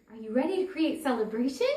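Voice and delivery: quick, upbeat invitation; exuding celebration. Retold or imitated. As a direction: radiate celebration as you ask. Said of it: "I'm exuding this celebration".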